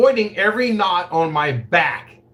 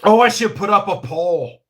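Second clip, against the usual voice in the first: ordinary delivery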